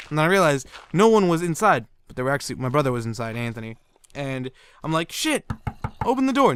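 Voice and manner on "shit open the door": high-pitched urgent call; retold panicked yell. Retelling that his brother was not answering, panicked yell. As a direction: act out a kid pleading at the door.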